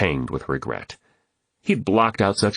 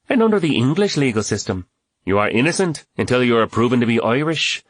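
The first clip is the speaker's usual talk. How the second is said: playing along; 6 semitones higher than usual. A narrator's reading. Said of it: "Catherine played along".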